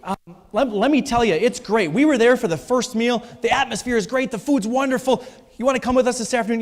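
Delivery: a friend pushing the invite with enthusiasm; eager invitation. Retold or imitated. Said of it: "come over and say".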